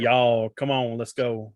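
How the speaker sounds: a touch of Texas drawl on y'all; lightly drawled Texan call; mild Texas twang. Retold or imitated. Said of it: "It's when you say".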